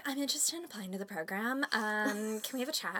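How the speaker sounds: soft polite phone voice; sweet professional phone manner; customer service voice. Retold or imitated. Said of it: "I'm like".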